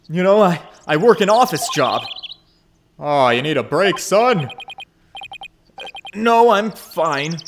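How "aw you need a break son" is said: put-on boisterous dad rallying his boy; hearty dad. The speaker teasing.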